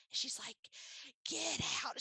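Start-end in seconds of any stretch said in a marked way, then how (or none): 1.3-2.0 higher-pitched retold amazement; excited disbelief. Friend reacting to big news, excited disbelief. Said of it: "She was so excited".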